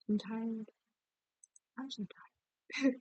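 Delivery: real tired groan of a line; exhausted outburst. Real, not acted. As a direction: push it out, dragging each word. Repeats louder, drawn out.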